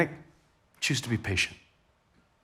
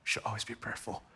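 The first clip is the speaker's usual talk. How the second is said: bored throwaway, much softer, half-swallowed; dismissive mumble; 3 semitones lower, 12 dB quieter than usual. Retold or imitated. Congregation brushing off the verse, muttered dismissively. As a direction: shrug it off like a verse you already know. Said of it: "we kinda read it like that".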